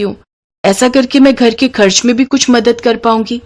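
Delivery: gently pleading for her dream; timid daughter-in-law. Acted. Bride asks mother-in-law for a boutique, hopeful and pleading.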